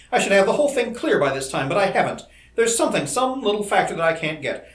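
high, loud, exasperated rant; agitated complaint, easing at the very end; snapping frustration. A narrator's reading. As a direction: vent at your own failure, worked up. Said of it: "he snapped".

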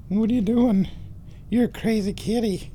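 high, playful scolding of a cat; pet talk. Real, not acted. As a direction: tease the kitty in a high voice.

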